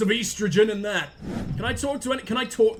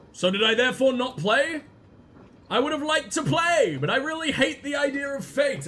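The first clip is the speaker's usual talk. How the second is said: put-on higher-pitched, petulant teen rant; edgy teenager; 4 semitones higher than usual. Game hero refusing to believe in fate, edgy teen voice. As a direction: complain like a hammed-up edgy teenager. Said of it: "Let's make him an edgy teenager".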